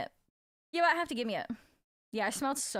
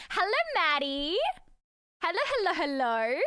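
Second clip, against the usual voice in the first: excited greeting; 5 semitones higher, 3 dB louder than usual. Real, not acted. Greeting a chat viewer.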